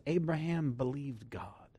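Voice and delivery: slow reverent whisper; hushed whisper. Acted. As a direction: breathe it like a secret. Reading Romans with hushed reverence.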